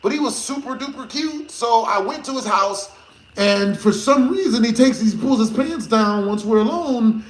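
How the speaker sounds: put-on a light girly retelling voice; imitating girlfriend. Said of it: "she was like".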